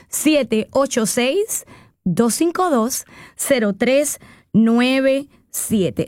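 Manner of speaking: phone number said very slowly, digit by digit; slow dictation. Shown as a demonstration. Host repeating her phone number slowly so callers can dial. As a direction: spell out the digits slowly so listeners can write them down. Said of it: "es el número a marcar".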